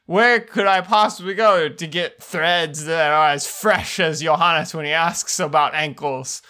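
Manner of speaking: bright mock commercial pitch; ad read. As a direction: sell it like a cheesy ad.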